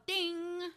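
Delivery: high, held "ding" like a bell; imitated bell ding. Teasing co-host that the bell matters, ringing ding. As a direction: ring out a long high ding.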